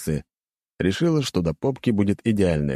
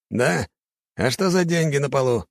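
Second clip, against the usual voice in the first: skeptical scoff; 8 semitones higher than usual. A narrator's reading. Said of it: "хмыкнул тот".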